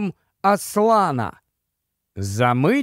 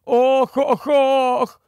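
higher moaning ohs; groaning; 7 semitones higher, much slower than usual. A narrator's reading. Sailor moaning in terror at the noise, groaning. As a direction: let the sailor moan in dread. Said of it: "простогнав один із матросів".

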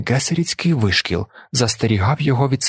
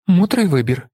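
gloating chuckle; 7 semitones higher than usual. A narrator's reading. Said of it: "зловтішно реготнув Скетелі".

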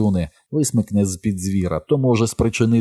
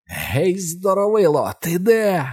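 shouted challenge; 11 semitones higher, slower than usual. A narrator's reading. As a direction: yell out to draw the beast. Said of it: "вона закричала".

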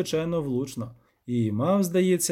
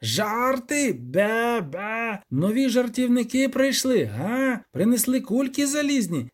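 high, ranting creature voice; raging goat devil; 7 semitones higher, slower than usual. A narrator's reading. Devil hurls iron balls at intruders, ranting high. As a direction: rant like a furious goat demon.

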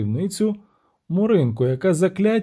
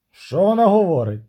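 mildly raised, demanding prince; shouted question; 5 semitones higher, 4 dB louder than usual. Acted. Prince demands a translation from the witcher, raised voice. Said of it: "крикнув князь".

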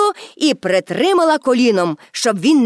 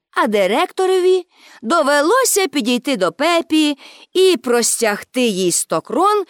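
ordinary delivery, nothing marked

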